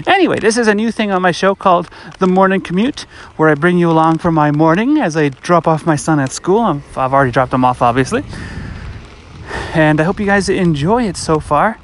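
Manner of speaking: slightly winded while walking; out of breath. Real, not acted. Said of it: "if I sound out of breath, that is because I'm walking".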